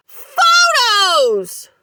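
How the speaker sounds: high, loud roar; a full roar. A narrator's reading. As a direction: roar the single word at her. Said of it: "roared her husband".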